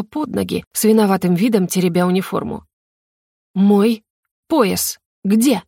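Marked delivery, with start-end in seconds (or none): 3.5-5.6 pressing, menacing demand; threatening hiss. A narrator's reading. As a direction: lean in on her with menace. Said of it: "угрожающе прошипела я ей".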